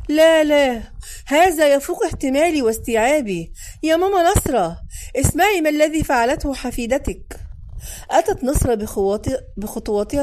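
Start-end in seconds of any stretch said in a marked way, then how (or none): 0.1-3.5 louder, higher cry of disbelief; exasperated outcry. Acted. Mother loses it at daughter. 3.8-7.4 calling out. Acted. Calling grandmother to complain.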